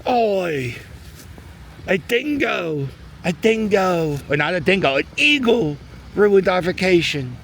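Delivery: bad, high-pitched mock Australian accent; joking Australian accent, badly done; Australian impression. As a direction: ham up an Aussie tourist, Australian twang all through. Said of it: "My Australian impression stinks".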